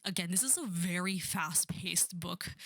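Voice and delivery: quick whispered aside to the viewers. Real, not acted. Vlogger whispers an aside to her viewers, hushed. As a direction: drop to a whisper for the side note.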